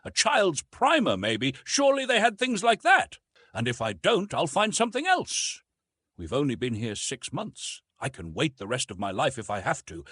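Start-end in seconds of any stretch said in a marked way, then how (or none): 0.0-5.6 Martha's voice. Acted. Martha musing on picture books.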